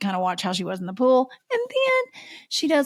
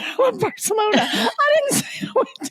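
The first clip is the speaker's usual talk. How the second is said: high, laughing squeak; laughing while quoting; 12 semitones higher than usual. Real, not acted. Speaker repeating her lie while laughing, high and squeaky. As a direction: fight back laughter as you repeat it.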